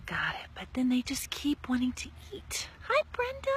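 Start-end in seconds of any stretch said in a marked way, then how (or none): 2.9-3.5 bright high greeting called out; cheery hello. Real, not acted. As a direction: call hello to a passerby. Greets a passing neighbour.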